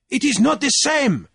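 high, loud objection; crying out in protest. A narrator's reading. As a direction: protest loudly to the room. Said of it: "Jeremiah cried".

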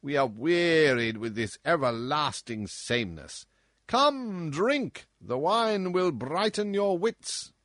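loud, high, bullying king voice; roaring tyrant king. Acted. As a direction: boom like a spoiled drunken tyrant. Tyrant king demands entertainment.

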